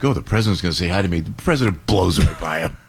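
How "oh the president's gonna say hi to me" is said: guy imagines a hello, said quickly and smug; smug attitude. Retold or imitated. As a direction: rattle off a smug, self-important aside. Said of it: "with an attitude like".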